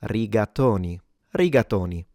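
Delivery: "Rigatoni" with a closed o in to. Shown as a demonstration. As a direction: keep the o of "Rigatoni" closed and rounded. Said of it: "remember to close it".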